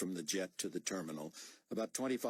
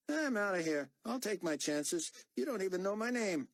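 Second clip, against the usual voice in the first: higher, louder, indignant soldier voice; defiant young corporal; 13 semitones higher, 4 dB louder than usual. Acted. Corporal refusing to refuel the plane, higher and defiant. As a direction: push back hard, you're not his lackey.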